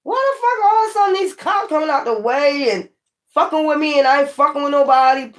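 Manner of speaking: recalling the cops, baffled and high; retold baffled outrage. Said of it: "I'm like".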